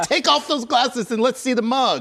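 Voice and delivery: high, loud teasing plea; playful exasperation. Real, not acted. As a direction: beg him to lose the glasses. Playful demand.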